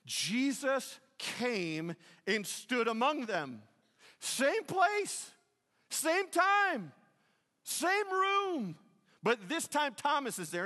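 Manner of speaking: high, loud, drawn-out build; full-force preaching. Acted. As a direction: proclaim it slowly to the room. Preaching the climax.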